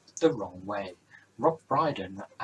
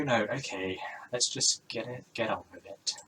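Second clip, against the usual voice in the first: usual speaking voice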